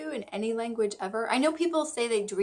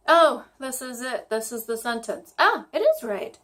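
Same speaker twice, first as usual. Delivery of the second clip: excited; 3 semitones higher, 6 dB louder than usual. Real, not acted. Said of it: "I was so excited to remember".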